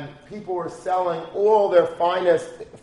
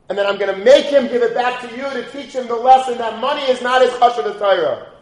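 raised, forceful voice with high pitch; emphatic father; 7 semitones higher, 6 dB louder than usual. Retold or imitated. A father insisting to his son, forcefully. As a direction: drive home the lesson like a stern father.

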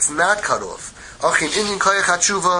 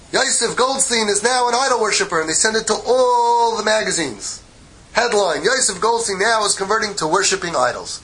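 raised, proclaiming headline voice; headline announcer; 4 semitones higher than usual. Acted. Magazines announce Goldstein's conversion, proclaimed headline. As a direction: trumpet it like breaking news, pitched up.

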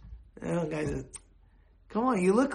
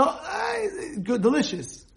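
gushing praise; 8 semitones higher, slower than usual. Shown as a demonstration. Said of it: "But you, as the".

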